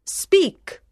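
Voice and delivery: high commanding queen voice. Acted. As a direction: command it like a judge on a throne. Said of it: "said the Queen, who sat like a judge".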